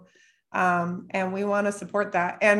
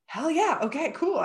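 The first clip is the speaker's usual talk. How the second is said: higher, upbeat hell yeah; pleased; 7 semitones higher than usual. Retold or imitated. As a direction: celebrate lightly. Her pleased reply to client.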